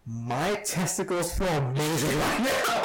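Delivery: giggly high-pitched blurt through laughter; laughing. Retold or imitated. Stoned passenger to friend in Uber, giggling. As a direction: laugh out the confession, giddy.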